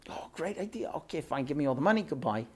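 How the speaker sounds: lightly voiced, quiet quick okay; mock Esav agreeing. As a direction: toss it off like a greedy fool. Esav voiced accepting the money.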